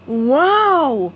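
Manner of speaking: Patrick voice. A narrator's reading. Patrick reacting.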